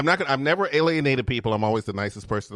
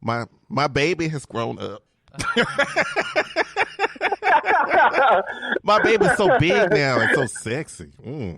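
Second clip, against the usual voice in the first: slow, louder gushing, half laughing; mock emotional gushing; 7 semitones higher, 6 dB louder, slower than usual. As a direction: gush like a teasing proud parent through laughter. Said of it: "'Cause I'm having an emotional moment".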